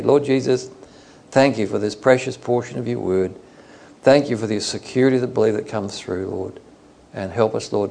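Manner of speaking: prayer voice that keeps close to his own, fading away on the amen; gently praying aloud for the group, trailing off; spoken prayer. Acted.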